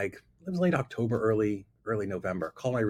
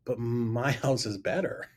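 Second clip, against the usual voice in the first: laughing; slower than usual. Retold or imitated. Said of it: "I can't even say it with a straight face".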